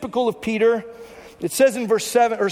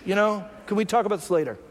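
patient hush. Retold or imitated. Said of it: "Jesus is probably thinking like".

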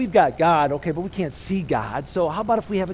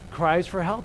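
slower, louder call-and-response line; called out louder, drawn out. Shown as a demonstration. Congregation asked to shout it out, louder. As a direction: give it back louder to the preacher. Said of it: "Shout it out".

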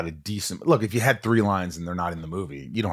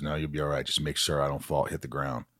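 lightly low reassuring wrestler; 3 semitones lower, 5 dB quieter than usual. Retold or imitated. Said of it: "He goes".

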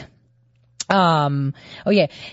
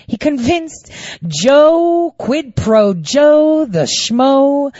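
mocking emphasis; 4 semitones higher, much slower than usual. Mocking nickname, slowed.

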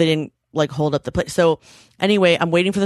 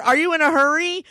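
laughing question; 10 semitones higher than usual. Real, not acted. Laughing at own tweet.

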